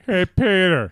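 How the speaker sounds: loud, high mock call-out; sudden call. Co-host re-enacting his random outburst at home, mock call. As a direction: blurt it out like a catchphrase. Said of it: "all of a sudden I was like".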